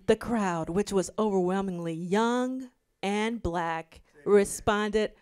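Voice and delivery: slow, deliberate article read-aloud; measured, stretched-out reading delivery. Real, not acted. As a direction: draw the phrases out as you read. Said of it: "transition to my reading voice".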